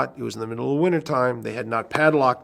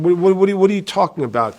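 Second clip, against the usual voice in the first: disbelief; 7 semitones higher, 6 dB louder, faster than usual. Retold or imitated. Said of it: "And I'm thinking".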